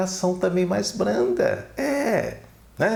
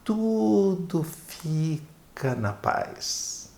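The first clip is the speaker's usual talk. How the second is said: very slow, softer and gentle; calm and soft; 2 semitones higher, 3 dB quieter, much slower than usual. Shown as a demonstration. Speaker showing viewers the calm voice that ends the quarrel, slow and soft. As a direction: let it settle into peace, slowly. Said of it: "continua com aquela voz suave".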